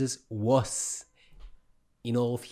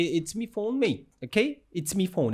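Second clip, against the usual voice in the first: mock Irish accent; 4 semitones higher than usual. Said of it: "isn't it Irish".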